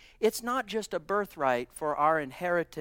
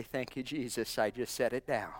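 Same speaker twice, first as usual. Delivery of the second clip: quiet relief; 5 semitones lower, 5 dB quieter than usual. Pretend. Imagined grateful believer, soft.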